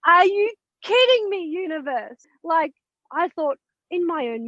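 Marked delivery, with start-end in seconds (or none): 0.1-2.3 higher-pitched retold disbelief, dropping off at the end; incredulous protest. Wife retelling her outcry at the universe, incredulous.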